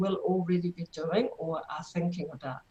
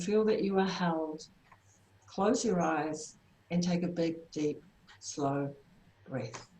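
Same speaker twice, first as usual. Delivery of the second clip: guided breathing. Acted. Leads a grounding breath exercise.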